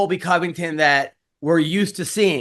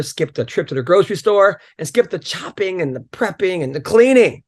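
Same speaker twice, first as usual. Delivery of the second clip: upbeat sponsor read with jokey asides. Acted. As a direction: sell it like a podcast host ad spot. Host reads sponsor ad.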